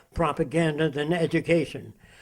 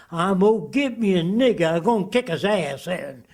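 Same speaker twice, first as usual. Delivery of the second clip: put-on Southern accent; 2 semitones higher than usual. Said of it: "you're going to speak with a Southern accent".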